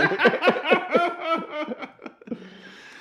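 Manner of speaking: real high laugh after the joke; high giggling laugh. Real, not acted. Laughs at own lyric joke.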